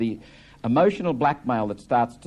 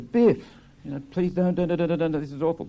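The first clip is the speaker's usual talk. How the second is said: pleading mother; 7 semitones higher than usual. Acted. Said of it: "Linda says".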